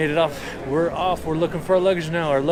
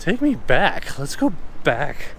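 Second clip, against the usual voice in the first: whiny plea; 3 dB louder than usual. Real, not acted. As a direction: beg to go back, whining. Wants to return to island.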